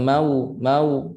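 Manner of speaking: "mau" with the lips not rounded enough for w; slack waw. Shown as a demonstration. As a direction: leave the glide of "mau" loose and short. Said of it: "tak masuk makhraj waw". ("mau" tak masuk makhraj waw)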